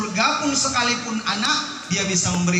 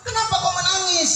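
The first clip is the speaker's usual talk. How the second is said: angel asking; 10 semitones higher than usual. Acted. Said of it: "ditanya malaikat".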